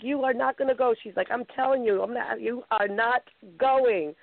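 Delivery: high, firm mother voice; mother forbidding her daughter to skydive; forbidding mom. Retold or imitated.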